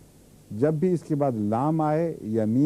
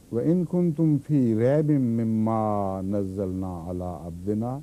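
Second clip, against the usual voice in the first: Quran recitation; 3 semitones lower than usual. Acted. Teacher recites the verse to his class in tajweed.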